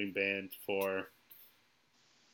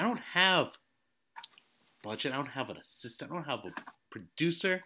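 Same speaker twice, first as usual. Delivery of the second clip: wrestling promo; 4 dB louder than usual. Pretend. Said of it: "Let me cut a WrestleMania promo on you".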